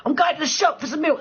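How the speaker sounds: mock quote. Mocking someone lost on way.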